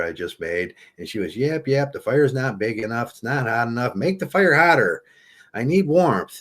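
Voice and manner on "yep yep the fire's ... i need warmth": hammed-up complaining woman, rising to a yell; mock nagging wife. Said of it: "And she's yelling at you".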